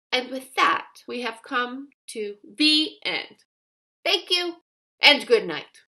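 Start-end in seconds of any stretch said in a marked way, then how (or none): none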